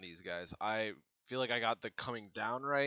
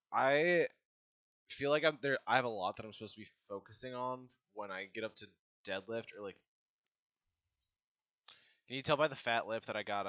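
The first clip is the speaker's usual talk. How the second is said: wearing a mouthguard; 6 dB louder than usual. Real, not acted. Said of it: "that I got my mouth guard in?".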